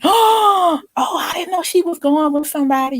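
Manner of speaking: high-pitched retold astonishment; mock surprise. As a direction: imitate a gossiping crowd's surprise. Crowd's surprise on seeing her date.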